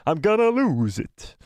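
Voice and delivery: cracking voice. Shown as a demonstration. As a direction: voice cracking on purpose. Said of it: "I'm losing my voice bad today".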